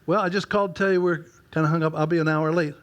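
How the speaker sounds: a wife calling, light and lilting. Retold or imitated. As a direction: sing it up like his cheerful wife. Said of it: "the lilt in her voice".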